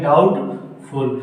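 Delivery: "डाउटफुल" with no b before the t; silent B. Shown as a demonstration. Teacher drilling doubtful, slow silent-B "डाउटफुल". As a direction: say "डाउटफुल" slowly, b left silent. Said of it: "क्या बोलते हैं".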